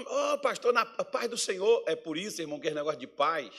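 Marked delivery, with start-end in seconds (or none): 0.0-1.8 theatrical sweet greeting. Retold or imitated. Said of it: "olha só que teatro".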